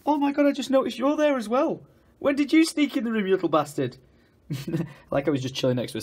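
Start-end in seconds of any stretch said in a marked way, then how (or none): 0.0-4.0 higher, haughty mock cat voice; sassy cat voice. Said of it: "she just comes".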